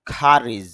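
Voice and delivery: খারিজ with an aspirated kh and an ending z sound; IPA pronunciation. Shown as a demonstration. Teacher reads the word from the IPA for students, aspirated. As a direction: breathe on the k and end খারিজ on a z. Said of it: "তাহলে উচ্চারণটা কি হবে".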